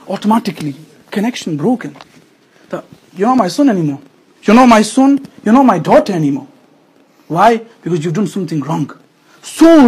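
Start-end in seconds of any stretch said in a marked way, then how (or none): 3.1-6.5 disowning parent. Retold or imitated. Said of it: "they mean it".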